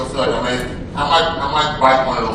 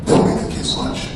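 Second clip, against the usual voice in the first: hushed warning. Retold or imitated. Wife's quiet warning.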